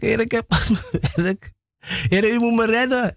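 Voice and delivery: mock-panicked pleading, high in pitch; desperate plea to God. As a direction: re-enact a frantic prayer for rescue. Desperate prayer retold, calling on Lord.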